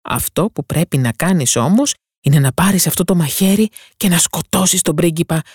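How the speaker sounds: high, urgent voices comforting then urging; pleading sisters. Acted. Sisters tell the mermaid to kill the prince, urgent. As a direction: sisters calling from the sea, desperate.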